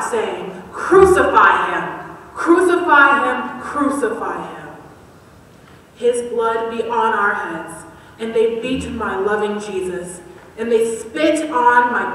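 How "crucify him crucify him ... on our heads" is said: crowd's shout. Acted. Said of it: "they cried out".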